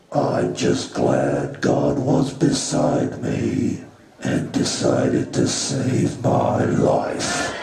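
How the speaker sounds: slow, earnest mock of the survivor; survivor quote. God quoting a tornado survivor slowly, in mock earnest. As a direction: drag it out like a grateful churchgoer. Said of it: "And you know what she said?".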